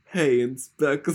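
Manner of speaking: slow, loud, laughing Brooklyn "Hey, Inspector"; Brooklyn accent. Acted. Actor tries Brooklyn for the inspector, laughing, slow and loud. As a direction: lean hard into a hammed-up Brooklyn greeting. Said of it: "what's Brooklyn?".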